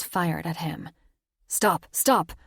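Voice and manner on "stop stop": loud, urgent call to stop firing; crying out. Acted. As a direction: shout to halt the soldiers. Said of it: "Luke cried".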